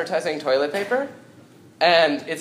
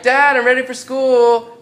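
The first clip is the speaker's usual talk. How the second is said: little bear; 7 semitones higher, 8 dB louder than usual. Acted. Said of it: "and little bear's like".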